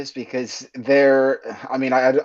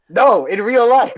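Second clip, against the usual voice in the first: mock Irish accent, pitched higher; fake Irish accent; 10 semitones higher, 6 dB louder than usual. Comedian threatening a streamer, mock Irish accent. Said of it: "in a full Irish accent".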